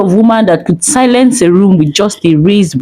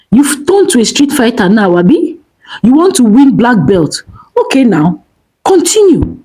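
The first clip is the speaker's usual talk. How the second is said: mocking; 5 semitones higher than usual. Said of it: "Kunle hissed".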